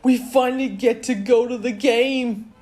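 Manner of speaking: very high, loud, thrilled voice; excited Milo. A narrator's reading. Milo thrilled to finally reach the game, high and excited. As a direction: burst out in high-pitched glee.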